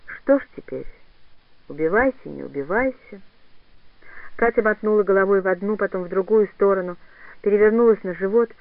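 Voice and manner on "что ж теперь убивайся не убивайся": put-on low, tired old woman's voice; a weary old granny, resigned. Old woman sighs to grieving Katya, low and weary.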